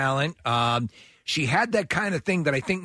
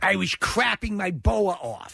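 higher, slow stage diva impression; Carol Channing; 4 semitones higher than usual. Co-host as the star explaining food poisoning, diva impression. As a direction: draw it out like a hammed-up Broadway star. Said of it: "she claimed to have only missed one performance".

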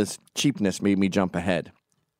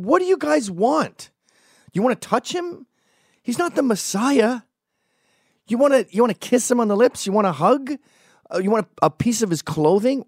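much higher, incredulous yelling at a pushing crowd; exasperated yelling at fans; 11 semitones higher than usual. Retold or imitated. To a crushing crowd around Tommy, high exasperated yelling. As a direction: shove back at the mob with your voice.

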